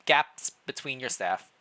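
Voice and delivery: measured storybook narration; story narration. Acted. Player narrating the king's walk through the castle, storytelling. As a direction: read the scene like a novel, drawing them in.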